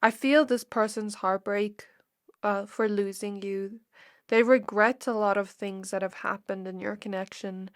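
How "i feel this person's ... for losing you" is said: tearful near-whisper, barely voiced; sad whisper. Real, not acted. Tarot reader feeling the heartbreak, tearful whisper. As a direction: let the sadness drop your voice to a whisper. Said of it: "excuse my voice if you can hear the sadness in it".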